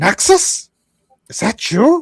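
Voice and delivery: high, slow, goblin-like creature voice. A storyteller voices a blind old dwarf asking if it's Naxus, goblin-like dwarf voice. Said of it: "start sounding like a goblin?".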